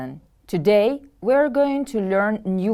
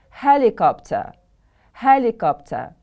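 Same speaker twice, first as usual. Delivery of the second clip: Helicopter with HEL stressed, pitch falling after; stress on first syllable; 2 semitones higher than usual. Shown as a demonstration. Teacher modelling a new word for pupils, first-syllable stress. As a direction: hit the first syllable of "Helicopter", let the rest fall. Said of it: "The stress is on the first syllable".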